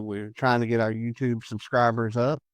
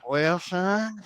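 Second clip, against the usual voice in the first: lightly voiced old grandpa, a bit higher; hint of grandpa; 4 semitones higher than usual. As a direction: gently play a folksy grandpa explaining. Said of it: "finally go to your grandpa".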